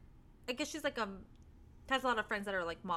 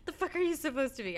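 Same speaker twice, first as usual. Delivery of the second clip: shouting at trespasser; 3 semitones higher, 5 dB louder than usual. Pretend. Pretend yelling at trick-or-treaters.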